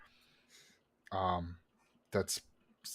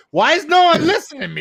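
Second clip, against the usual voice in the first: words muffled behind a hand; hand over mouth; 14 dB louder, faster than usual. Real, not acted. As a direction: talk through your hand over your mouth. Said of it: "talk with your hand over your mouth".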